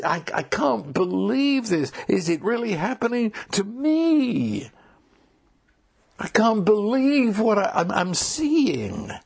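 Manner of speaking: mildly acted wonderstruck exclamation; breathless awe. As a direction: gasp it out as if seeing God at work. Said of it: "I'm hyperventilating".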